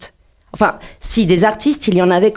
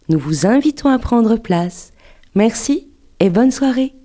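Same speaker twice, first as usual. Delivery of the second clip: lightly voiced flight attendant announcement; a hint of cabin crew welcome. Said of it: "avec ma voix d'hôtesse de l'air".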